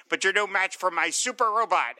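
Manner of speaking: lightly voiced gloating cartoon villain; Penguin voice. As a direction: brag it like a small-time comic-book crook. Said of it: "I'm doing my Penguin voice".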